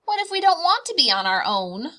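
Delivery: anxious cub, high and quick. Acted. Bear cubs pleading with Mama, fast and high. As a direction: rush it like a nervous little cub. Cubs voiced asking mother.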